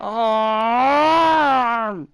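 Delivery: anguished groan. Real, not acted. Another crash.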